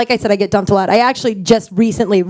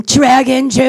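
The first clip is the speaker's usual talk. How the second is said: tag; 3 semitones higher than usual. Retold or imitated. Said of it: "pictured him in his head going".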